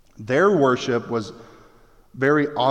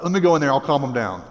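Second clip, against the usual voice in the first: optimistic Paul; 3 dB louder, faster than usual. Retold or imitated. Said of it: "But Paul is so optimistic".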